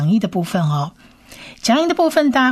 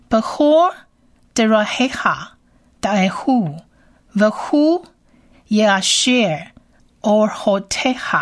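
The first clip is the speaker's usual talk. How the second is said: reading Hebrew aloud. Shown as a demonstration. Teacher reads the verse in Hebrew for listeners. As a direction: read each word with a pause. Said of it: "原文读一遍".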